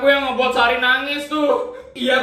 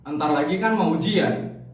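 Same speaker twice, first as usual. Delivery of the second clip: deep ghostly voice; 8 semitones lower than usual. Acted. Deep-voiced figure answering Sari.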